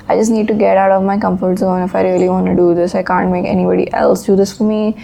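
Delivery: flat, even monotone delivery. Real, not acted. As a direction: speak in a flat monotone, just woken up. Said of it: "I'm sorry if I sound very monotone".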